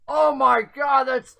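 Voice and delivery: high, delighted exclamation; roaring with amusement. A narrator's reading. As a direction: act tickled, barely getting the words out. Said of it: "he starts roaring with laughter".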